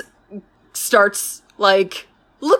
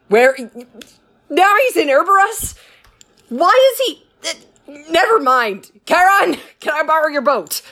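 climbing higher and higher with frustration; growing exasperation; 4 semitones higher than usual. Retold or imitated. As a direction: wind yourself up, question by question. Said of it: "Theseus is like".

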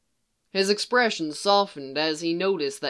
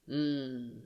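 much softer contented hum; low soft hum of assent; soft agreeing hum; 3 semitones lower, 10 dB quieter than usual. A narrator's reading. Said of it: "Thrawn agreed".

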